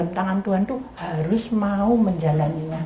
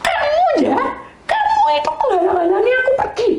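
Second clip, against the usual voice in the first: husband scolding angrily. Retold or imitated. Dead husband scolding his wife for holding him back, high angry accusation. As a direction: voice the angry husband blaming her. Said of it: "marah-marah".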